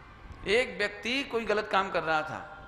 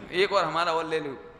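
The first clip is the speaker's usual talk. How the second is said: a little louder, joining in on the beating; mock egging on; 3 semitones lower, 4 dB louder than usual. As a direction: playfully urge one more blow. Acting someone joining the beating. (जोश में उकसाने का अभिनय)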